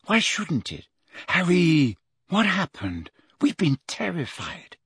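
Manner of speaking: put-on high, worried girl's voice; anxious. Hermione questions Harry after his absence, anxious. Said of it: "said Hermione anxiously".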